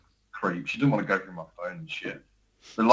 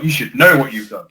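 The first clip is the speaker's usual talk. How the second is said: louder, higher imitation of an accusing wife; mock wife telling off; 6 semitones higher, 11 dB louder than usual. Husband imitating his wife's accusation, a louder, higher mock scolding. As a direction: throw it back at him like a scolding wife. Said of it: "And she's like".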